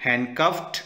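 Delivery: handcuffed ending in a short T; ending in a T sound. Shown as a demonstration. Teacher models handcuffed for students, ending in T. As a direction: clip handcuffed off on a T. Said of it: "ट का sound है".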